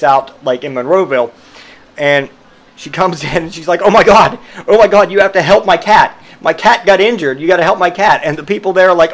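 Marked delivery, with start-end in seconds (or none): 3.8-8.2 high, loud hammed-up panic; imitating a frantic pet owner; mock frantic plea. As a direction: beg the vet in fake hysterics. Coworker begging at vet.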